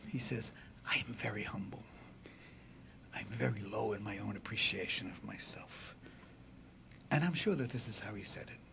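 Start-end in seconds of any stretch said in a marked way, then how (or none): 0.9-6.0 humble oration, low and soft but audible; soft-spoken orator. Acted. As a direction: address the jury softly and humbly. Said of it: "he talked very softly".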